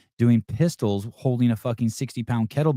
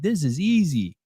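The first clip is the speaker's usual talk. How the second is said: imitating kids, higher, swooping pitch; kids' breezy confidence; 5 semitones higher than usual. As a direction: lightly mimic cocky kids, voice lifted. Kids' cocky reply in retold anecdote.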